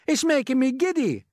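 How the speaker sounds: high, loud complaint; distressed call. A narrator's reading. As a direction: call it down, pleading. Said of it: "Miss Spider called out".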